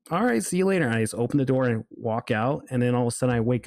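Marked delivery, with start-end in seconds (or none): 0.1-0.8 high, singsong mock farewell; casual retold goodbye. Dream characters see the dreamer off, casual high voice. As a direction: toss off a high-pitched imitated goodbye.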